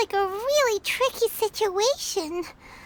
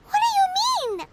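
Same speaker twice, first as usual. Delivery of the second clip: sharply higher, alarmed question; startled question; 9 semitones higher than usual. Acted. Companion startled by the rebel's warning, asks sharply higher. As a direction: jump up in pitch, caught off guard.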